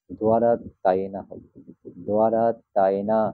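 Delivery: দোয়ারা with a w glide after the d; দোয়ারা তাই না, carefully sounded out; Pali pronunciation. Shown as a demonstration. Teacher repeating the correct দোয়ারা তাই না for students. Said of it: "এটার উচ্চারণ কিন্তু".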